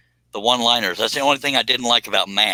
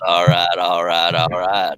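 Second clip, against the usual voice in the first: low drawl, louder and quicker; Matthew McConaughey impression; 3 semitones lower, 3 dB louder, slower than usual. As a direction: smoother McConaughey drawl, less growl. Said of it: "so we're gonna say it like this".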